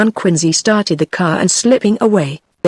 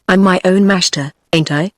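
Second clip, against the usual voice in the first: put-on drunk voice. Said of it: "says with alcoholic accent".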